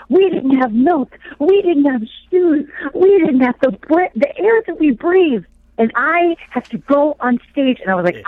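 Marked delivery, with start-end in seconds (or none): 0.1-5.5 slow, earnest testimony voice; slow and solemn, lightly mimicking her; imitating Olive's testimony. Retelling the orphan's testimony on stage, slow and earnest. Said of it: "And she's like".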